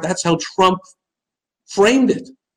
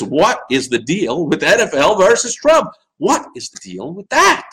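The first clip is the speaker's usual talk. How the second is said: Seinfeld bit; 5 semitones higher than usual. Retold or imitated. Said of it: "you sound like Jerry Seinfeld".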